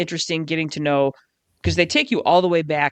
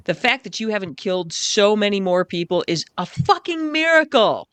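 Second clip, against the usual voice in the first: exasperated outburst; 5 semitones higher than usual. Real, not acted. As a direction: let the outrage burst out at the end. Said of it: "This book will make you so mad".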